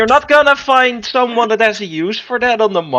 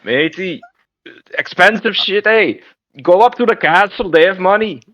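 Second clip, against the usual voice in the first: put-on a Scots accent that slides toward Jamaican; hammed-up Scots merchant with a drifting accent; Scottish accent attempt; 2 semitones higher than usual. Merchant advises the adventurer in a wobbly Scottish accent. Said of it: "Why are you talking Jamaican?".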